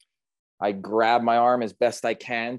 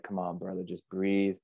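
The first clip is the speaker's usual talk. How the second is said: soothing rescuer; 2 semitones lower, 5 dB quieter than usual. Retold or imitated. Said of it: "everyone's trying to guide me".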